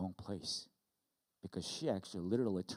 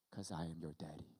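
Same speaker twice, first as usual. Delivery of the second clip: soft, lower voice after a pause; hushed, low punchline; tender reassurance; 4 semitones lower, 9 dB quieter than usual. Acted. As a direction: say it gently as a loving father. God's answer as solemn punchline.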